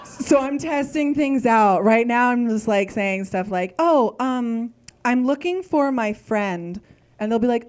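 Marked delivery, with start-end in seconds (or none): 3.8-6.8 slow, tentative request; careful hedging. Retold or imitated. Asking restaurant staff for her mom, carefully hedging. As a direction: feel your way carefully through the request.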